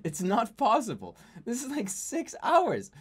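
can't believe it's happening again; stunned disbelief. Real, not acted. To viewers, game crashed a second time, stunned and hushed.

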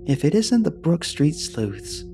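put-on a gentle, pleased old lady's welcome; warmly. A narrator's reading. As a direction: welcome the boys like a kindly neighbour. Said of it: "she said warmly".

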